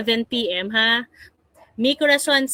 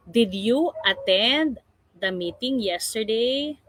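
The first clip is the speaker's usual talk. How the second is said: did you attend the meeting yesterday said slowly, rising on yesterday; teacher modelling the right answer; slow model sentence. Shown as a demonstration. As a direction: spell out the correct question for the class. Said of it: "Did plus subject plus base form of the verb".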